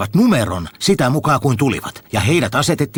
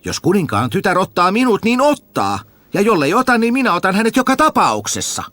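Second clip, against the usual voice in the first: high, eager simpleton voice; a high-voiced village fool asking questions; Tuhma Jussi asking; 9 semitones higher than usual. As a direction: ask the brothers like a cheerful fool, pitched up. Jussi pleads with father.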